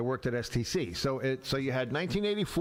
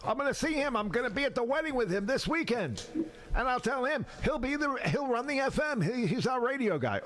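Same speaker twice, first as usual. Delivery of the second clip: high, excited bragging; boasting cousin; 8 semitones higher than usual. Retold or imitated. Cousin bragging to his partners about Hank, high and excited. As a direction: show off your cousin to the partners.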